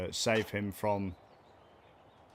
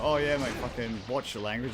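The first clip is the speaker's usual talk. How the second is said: mock Australian; 4 semitones higher, 4 dB louder than usual. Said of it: "they go".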